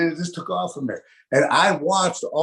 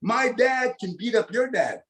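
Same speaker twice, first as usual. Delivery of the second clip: put-on boastful boy; 6 semitones higher than usual. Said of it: "one boy says this".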